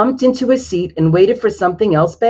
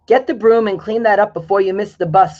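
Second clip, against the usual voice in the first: scolding; 4 semitones higher, 3 dB louder than usual. Acted. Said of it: "scolded Mom".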